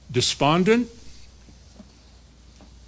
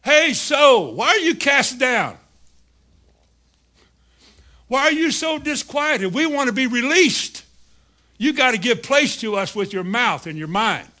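higher, urgent calling voice; the spirit calls to the downcast soul, higher and urgent; 4 semitones higher than usual. Acted. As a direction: call up to the soul, pleading to be let out. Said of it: "Your spirit talks to you".

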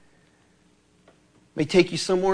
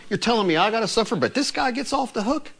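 mock complaint; 6 semitones higher than usual. Peter's complaint voiced.

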